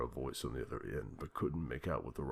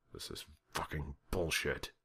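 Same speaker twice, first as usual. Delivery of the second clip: muttered. A narrator's reading. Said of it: "the president muttered again".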